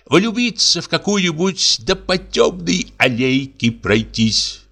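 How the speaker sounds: lightly voiced dreamy Russian; high, wistful musing. Russian muses dreamily on love.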